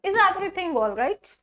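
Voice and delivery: slow rising question, words joined; slow demo. Shown as a demonstration. Teacher repeating the question in one flow, slow. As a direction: model the whole question slowly. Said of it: "ठीक है".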